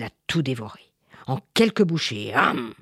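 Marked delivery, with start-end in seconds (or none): 2.3-2.7 drawn-out munching "hum"; gulping sound. Acted. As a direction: imitate a monster swallowing a mouthful. Mimics the monster gulping everything down.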